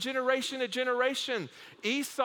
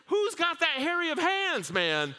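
incredulous; 8 semitones higher, 3 dB louder than usual. Real, not acted. Preacher marvels at hairiness.

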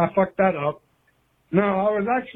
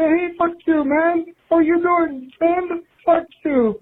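high, cheery "Oh, hey, friend, fuck you"; fake-friendly insult, pitched up; mock rude greeting; 10 semitones higher than usual. Caller parodying crude Russian slang, fake-friendly and higher. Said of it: "You don't just say".

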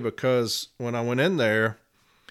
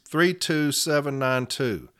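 slow dictation; 2 semitones higher, slower than usual. Shown as a demonstration. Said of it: "in front of arbitrator Louise Wolitz".

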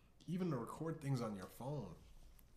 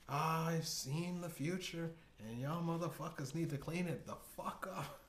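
Horrible Oracle; 6 semitones higher than usual. Acted. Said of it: "The Horrible Oracle".

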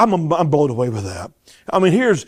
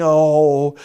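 mock whining; slower than usual. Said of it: "they're murmuring".

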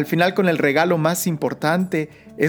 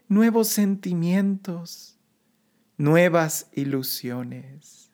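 earnest, rising litany prayer; prayerful invocation; 2 semitones higher than usual. Acted. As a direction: plead gently, building with each call.

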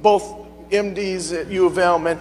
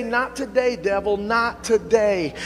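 defiant rebuke; 2 semitones higher, slower than usual. Retold or imitated. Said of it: "I had to say".

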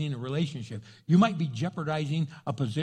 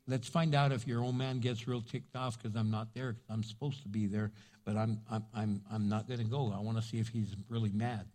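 sly whisper; 8 semitones lower, 8 dB quieter than usual. Retold or imitated. Voicing David's plan.

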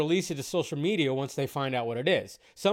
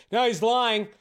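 mock accusation; 4 semitones higher, 3 dB louder than usual. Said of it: "sit there and be like".

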